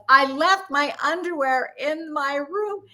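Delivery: high, slow and emphatic. Retold or imitated. Guest finally making the phone clerk hear, mock yelling. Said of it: "finally, louder and louder".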